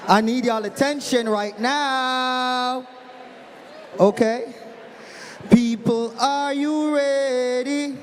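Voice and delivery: outside voice. Real, not acted. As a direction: call out over the crowd. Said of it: "I'm gonna use my outside voice now".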